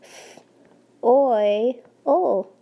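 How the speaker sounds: segmenting soil sound by sound; teacher sounding out soil for kids to blend; sounding out each sound. Shown as a demonstration. Teacher sounding out a word for the class to blend. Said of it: "blend with me like we do in class".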